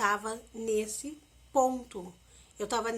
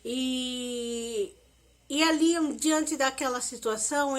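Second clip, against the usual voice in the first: usual speaking voice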